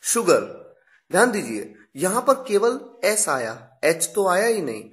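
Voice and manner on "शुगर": शुगर starting with sh, not s; sh in sugar. Shown as a demonstration. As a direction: model शुगर clearly. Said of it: "examples आपके सामने हैं".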